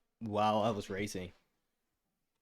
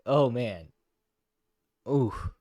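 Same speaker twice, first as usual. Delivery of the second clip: louder groans through a cramp; foot cramp; 6 dB louder, much slower than usual. Real, not acted. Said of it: "My foot is cramping".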